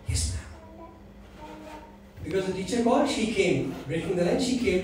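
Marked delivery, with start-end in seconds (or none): 0.1-0.9 put-on a tiny girl's high whisper, very soft; child's whisper. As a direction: breathe "Yes, ma'am" barely audible, like a shy little girl. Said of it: "And the girl whispered".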